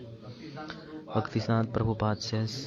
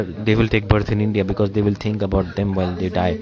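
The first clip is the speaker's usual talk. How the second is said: louder, incredulous guru dismissing the offer; a teacher quoting his guru's louder, scornful rebuttal; scornful retort; 6 dB louder than usual. Retold or imitated. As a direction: scoff at the very idea of freedom, then press on louder. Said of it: "He said".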